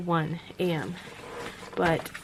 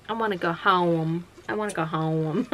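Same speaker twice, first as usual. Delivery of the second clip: put-on strong Southern accent. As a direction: lean into Southern vowels on the last word. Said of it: "a very strong Southern accent".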